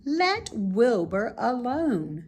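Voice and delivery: slow, firm telling-off; sharp rebuke. Acted. Charlotte scolding the rude lamb, sharp and slow. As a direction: put the lamb in its place. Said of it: "she spoke sharply to the lamb".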